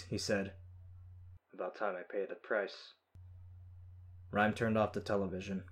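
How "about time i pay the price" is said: soft, subdued resignation; quieter voice. A narrator's reading. Captured man accepting what is coming, in a quieter voice. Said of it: "In a quieter voice".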